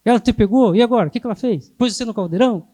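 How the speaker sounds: loud, alarmed questions from an untrained therapist; mock panic. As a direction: fire off worried questions in a mock fluster. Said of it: "se é uma pessoa que não sabe". (perguntas alarmadas, fingindo pânico)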